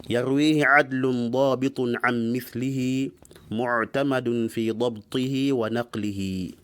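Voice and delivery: measured recital of Arabic didactic verse; poem recitation. Acted. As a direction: recite the verses in steady, metrical phrases.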